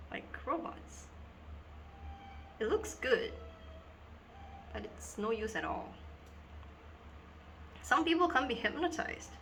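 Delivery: earnest schoolgirl confiding, halting with long pauses; Dina. Acted. Schoolgirl tells two boys about being hypnotized in assembly, dramatic confiding. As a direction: confide a dawning, troubling realization in dramatic monologue.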